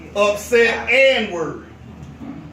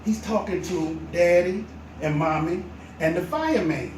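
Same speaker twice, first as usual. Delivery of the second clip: whisper; 5 semitones lower, 7 dB quieter than usual. A narrator's reading. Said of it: "He said".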